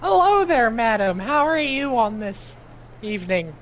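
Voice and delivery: character greeting. Acted. Player greets the old woman.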